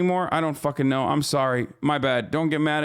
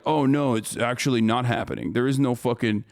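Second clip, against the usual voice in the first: a lower, mocking take on a war denier; 5 semitones lower than usual. Streamer mocking war deniers with a dismissive low sneer. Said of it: "turns around and says".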